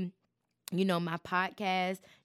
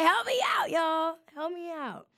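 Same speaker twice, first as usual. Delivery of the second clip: put-on much higher, whiny begging kid voice; begging little kid; 9 semitones higher than usual. Host begs listeners for support, high childlike plea. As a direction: plead like a small child in an ad. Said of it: "I'm like one of them little kids".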